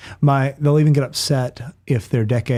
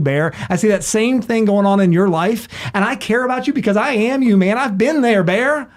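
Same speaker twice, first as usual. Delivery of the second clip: higher-pitched confession, building in urgency; acted impassioned plea; 6 semitones higher than usual. Recovering bartender pleading with a drinking bear, acted impassioned plea. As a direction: plead from your own painful experience, voice climbing.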